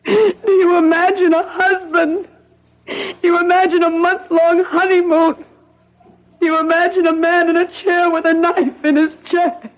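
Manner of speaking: near tears, pleading; tearful protest. Acted. Woman doubted by the officer, tearful and insistent. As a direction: voice catching as she insists.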